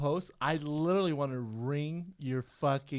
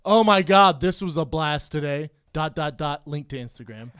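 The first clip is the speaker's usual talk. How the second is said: mock cheery post; 2 semitones lower, 7 dB louder than usual. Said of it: "And you put".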